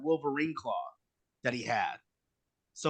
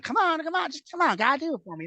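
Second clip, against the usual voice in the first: mock pleading boss; 12 semitones higher than usual. Promoter Ian pleading with New Jack.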